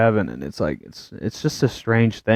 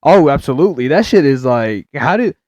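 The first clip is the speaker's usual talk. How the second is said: like you can't believe it; incredulous; 9 semitones higher, 4 dB louder than usual. Real, not acted. Excited, incredulous rant.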